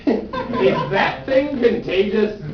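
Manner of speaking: slow laughing repeat. Real, not acted. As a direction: say it through a laugh.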